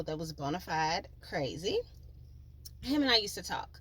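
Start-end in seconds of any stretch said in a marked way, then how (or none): 2.8-3.7 pointed emphasis on "talk" at the end; stress on talk. Shown as a demonstration. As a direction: lean on the word "talk". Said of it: "Emphasis on the word talk".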